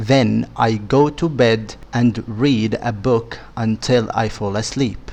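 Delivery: slow, clear reading of a simple story. Acted. Teacher reads a short story to students, slow and clear. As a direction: read it slowly for learners to follow.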